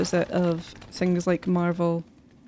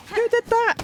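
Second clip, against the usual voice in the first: wolf voice; 3 dB louder than usual. Pretend. High put-on creature voice.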